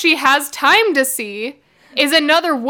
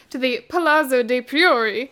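bad Italian accent. Shown as a demonstration. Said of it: "here's my bad accent".

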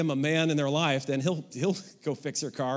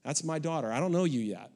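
put-on calm talk to boyfriend; 3 semitones lower than usual. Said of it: "I have no problem to say to any young guy".

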